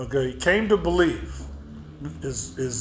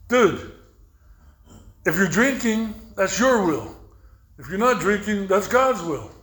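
raised, punchy sponsor voice; emphatic explaining; 4 semitones higher, 4 dB louder than usual. Retold or imitated. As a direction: lay it out as if obvious. Sponsor retold, setting him straight.

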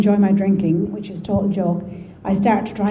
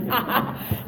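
acted laugh; 3 semitones higher, 9 dB quieter than usual. Acting out her own reaction.

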